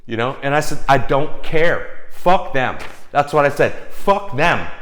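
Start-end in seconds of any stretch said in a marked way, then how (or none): 0.9-2.8 slow, dismissive retold refusal; defiant. Telling the partner off about the deal, slow and defiant. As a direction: brush them off in a slow, defiant retelling. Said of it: "This is my energy".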